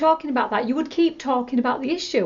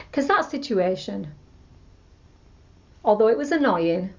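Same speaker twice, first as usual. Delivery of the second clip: calm letting go. Shown as a demonstration. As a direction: settle the anger and release it gently. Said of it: "Make it so that it's more positive".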